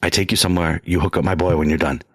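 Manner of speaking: low, lightly imitated Jamaican accent; mock Jamaican, low and matter-of-fact; Jamaican man. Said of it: "And he's like".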